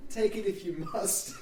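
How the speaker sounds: hammed-up sheepish reluctance. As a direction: hand it over reluctantly, half laughing. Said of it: "it's very sheepish".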